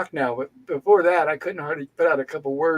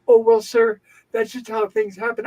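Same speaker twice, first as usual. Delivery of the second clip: higher-pitched mock-patient brush-off; condescending nurse; 4 semitones higher than usual. Nurse excusing the long wait to a patient, mock condescending. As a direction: imitate a nurse talking down to a patient. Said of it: "all condescending".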